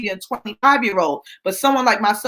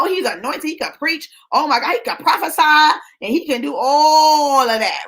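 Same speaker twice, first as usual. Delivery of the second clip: higher-pitched imitation of a swooning admirer; mock gushing; 5 semitones higher than usual. Mimicking women wowed by his preaching, gushing.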